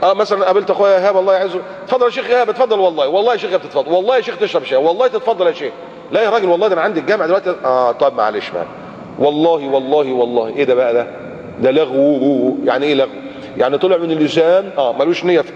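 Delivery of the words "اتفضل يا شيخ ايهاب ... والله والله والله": insistent host. Retold or imitated. Greeting brother Ehab, insisting he come for tea. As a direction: urge him in, oath after oath.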